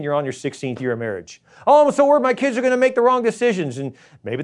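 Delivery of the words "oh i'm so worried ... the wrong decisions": mock worrier. Mocking a worrier.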